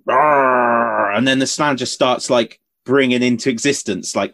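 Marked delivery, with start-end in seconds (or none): 0.1-1.2 dinosaur voice. Retold or imitated. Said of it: "and he's like".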